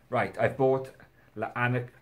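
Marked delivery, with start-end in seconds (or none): 1.4-1.9 "La Anar-" cut off mid-word, unsure; stumbling French. Real, not acted. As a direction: break off "La Anar-" halfway through. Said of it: "I can't even say it".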